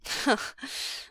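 short breathy wry chuckle; wry laugh. A narrator's reading. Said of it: "a wry humor".

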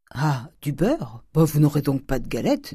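lightly voiced balking servant; reluctant maid objecting; grumbling servant. Servant balks at giving butter.

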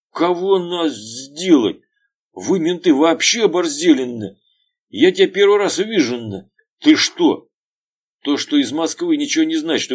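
high, loud outraged yelling; furious shout. Acted. Veryovkin yells at the cops, furious. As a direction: threaten the cops in fury.

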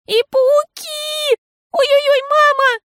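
high, loud panicky shriek; scream. A narrator's reading. Girl screams to mama about spiders, high and loud. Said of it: "закричала она".

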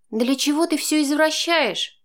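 Chaika, reproachful; wincing reproach. A narrator's reading. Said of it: "поморщилась Янка".

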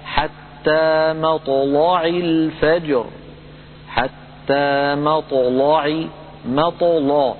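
slow chanted مطلع with a heavy لام; مطلع drawn out, لام heavy; Quranic recitation. Shown as a demonstration. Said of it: "كقوله تعالى".

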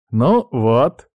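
pleased, vindicated remark; satisfied. Acted. Pirate seeing his remedy work, satisfied. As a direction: say it with mild satisfaction. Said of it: "удовлетворённо кивнул Дерек".

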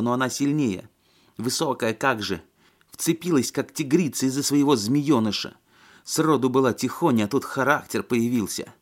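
high, spiteful and venomous. A narrator's reading. Lena rages to Alexei about her sister. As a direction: spit out the hatred for her sister. Lena spitting hatred, raised voice.

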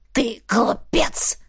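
медленно, тише, со злобой; выплюни оскорбление; зло выплюнул. Acted. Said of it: "зло выплюнул вурдалак". (злобный сдержанный плевок словами)

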